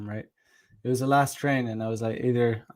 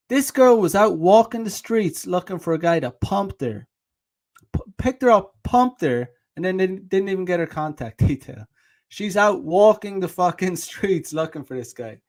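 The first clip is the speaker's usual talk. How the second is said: higher and louder, worked-up disbelief; really ranting at the camera, half laughing; incredulous rant; 5 semitones higher, 4 dB louder than usual. Real, not acted. Vlogger venting to viewers about the girl, worked up and loud.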